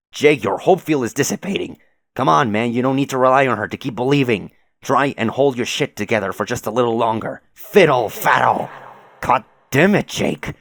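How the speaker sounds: rally a faltering friend, exasperated and loud; urgent exhortation. Acted. Acted urgent plea to Jake.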